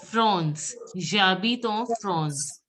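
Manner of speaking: France as "frons", en as "on"; measured J'habite en France with rounded nasal vowels. Shown as a demonstration. Teacher models the AN sound, France as "frons". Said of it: "A N will be pronounced as on".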